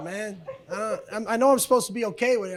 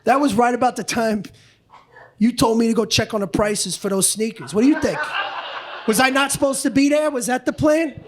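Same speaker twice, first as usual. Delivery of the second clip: wife's angry retort. Retold or imitated. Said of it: "She's like".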